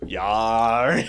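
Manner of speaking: mock thug grunt.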